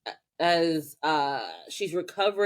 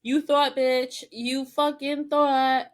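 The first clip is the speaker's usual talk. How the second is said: mock villain gloat; 6 semitones higher, slower than usual. Kirkin gloating over caught witch.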